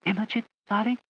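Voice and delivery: put-on high, frail old lady murmur; whispered. A narrator's reading. Lady Catherine greeting her niece, frail and high. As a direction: breathe it like a vague old aunt. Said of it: "she whispered".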